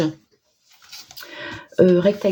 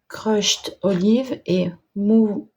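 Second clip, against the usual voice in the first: careful attempt at an English accent; English colour names said the English way, slowly; much slower than usual. Shown as a demonstration. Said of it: "très bel accent anglais". (accent anglais appliqué)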